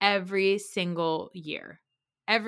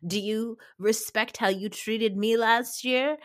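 piping up; 3 semitones higher, 3 dB louder, slower than usual. Retold or imitated. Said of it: "Erica pipes up with".

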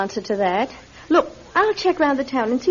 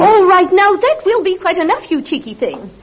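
louder, firm telling-off; firm scolding; 4 semitones higher, 5 dB louder than usual. Acted. Mother silencing her cheeky daughter in front of landlord, firm scolding. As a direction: put the girl in her place.

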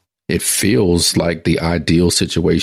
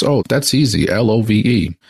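eager wife; 5 semitones higher than usual. Acted. Eager wife answers Peter at gate.

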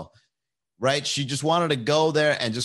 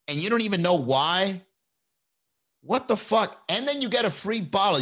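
rising rant; 5 semitones higher than usual. Real, not acted. Rant at complainers.

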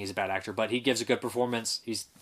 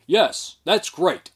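high, loud mock of a stiff dubbed voice; mocking bad dub voice; 6 semitones higher, 6 dB louder, much slower than usual. Mocking the dubbed actor's terrible voice, hammed up. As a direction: sneer it like a lifeless dubbed line. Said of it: "terrible A D R voice that's like".

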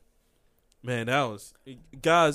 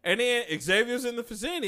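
excited outburst; 7 semitones higher than usual. Real, not acted. Heated argument about comics.

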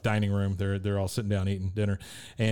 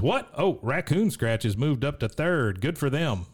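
imitating Dale; 5 semitones higher, slower than usual. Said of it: "Dale says".

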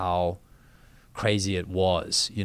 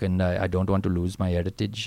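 lightly put-on Indian South African accent. Guest imitating his Indian school friends, with an Indian South African accent. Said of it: "talking like".

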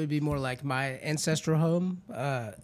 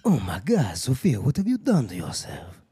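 low, hammed-up dismay; mock horror; 7 semitones lower than usual. Reacting to Sophia's self-kick, mock horror. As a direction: scold with melodramatic pretend horror.

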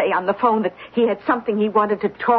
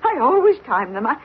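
tearful, high-pitched protest; crying; 6 semitones higher than usual. Acted. Housekeeper explains the runny eggs to her employer, crying. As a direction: plead your case through tears. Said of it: "Don't cry about it".

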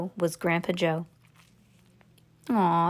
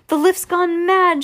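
high, loud, slowed-out cry; alarmed shout; 8 semitones higher, 5 dB louder than usual. A narrator's reading. Grandpa Joe high in the sky, alarmed shout. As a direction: wail it loudly, pitched up high. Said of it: "shouted Grandpa Joe".

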